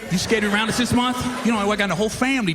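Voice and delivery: mock-taunting kid voice, pushed; teasing son. Son taunts his dad on the phone, mock shouting. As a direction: needle your dad, half yelling. Son mocking dad about Black History Month.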